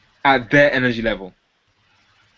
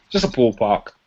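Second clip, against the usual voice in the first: disarming casual; 4 semitones lower than usual. Shown as a demonstration. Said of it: "a disarming, reasonable person tonality".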